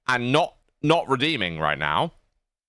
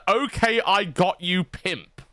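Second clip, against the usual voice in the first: lightly imitated, raised then dropping away; Wings of Redemption; 5 semitones higher, slower than usual. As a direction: quote it in a mildly put-on voice. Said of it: "portraying Wings of Redemption right now".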